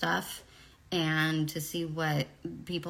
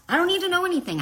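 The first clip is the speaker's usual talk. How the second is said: emphatic son; 13 semitones higher, 8 dB louder, much faster than usual. Retold or imitated. Son insists he trusts mom.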